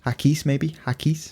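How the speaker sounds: "Haggis" in French, with a hard k; "Haggis" said "hakis", French style. Shown as a demonstration. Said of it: "It's H A C".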